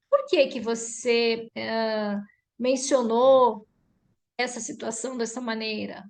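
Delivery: slow, careful wording with drawn-out words; demonstrated understanding tone; open, non-confrontational question. Shown as a demonstration. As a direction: ask unhurriedly, inviting her explanation. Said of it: "mas o tom de voz".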